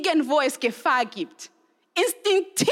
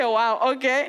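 bemused wow; 2 semitones lower than usual. Retold or imitated. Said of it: "Und ich denke".

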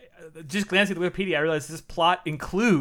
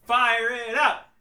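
drawn-out hype call; excited; 5 semitones higher, much slower than usual. Acted. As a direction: call it out slowly, pumped up. Cheering the movie on.

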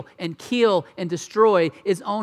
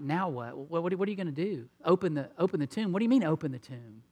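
incredulous Martha; 3 dB quieter than usual. Retold or imitated. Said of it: "Martha tells him".

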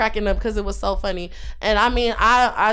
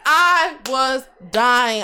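drawn-out words through a laugh; dying laughing; 2 semitones higher, 3 dB louder, much slower than usual. Retold or imitated. Friend recalling a fit of laughter, slow and laughing. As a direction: stretch it out slowly, amused all over. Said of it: "I could not stop laughing".

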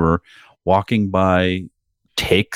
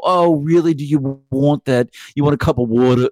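Nana voice; 7 semitones higher than usual. Retold or imitated. Husband teasing his wife in his old Jewish lady voice. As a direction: fuss over the wife like an elderly Jewish nana. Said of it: "I just do an old Jew lady".

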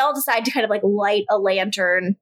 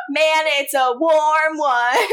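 put-on high, slow childlike sing-along; kids' cover version; 4 semitones higher, slower than usual. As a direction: sing it like a kids' cover. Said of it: "the kids' cover version".

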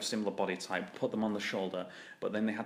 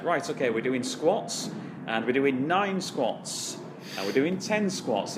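louder, higher, slow coach call; 5 semitones higher, 5 dB louder, slower than usual. Retold or imitated. Coach announcing squats to the class, slow and raised. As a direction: call out the reps like a wrestling coach.

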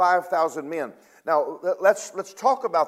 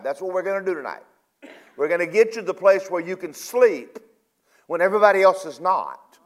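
preaching; 2 semitones higher than usual. Acted. Preaching builds to a promise.

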